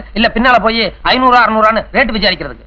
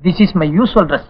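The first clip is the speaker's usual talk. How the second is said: slow, tearful words; 3 semitones lower, much slower than usual. Acted. Crying groom in the queue. (அழுகையுடன் மெதுவாக)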